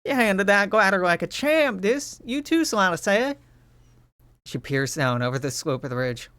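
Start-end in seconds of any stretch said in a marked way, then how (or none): 0.0-3.4 higher, bright cheerful character voice; Utopia's voice. Acted. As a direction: praise them like a proud teammate. Utopia voiced in game scene.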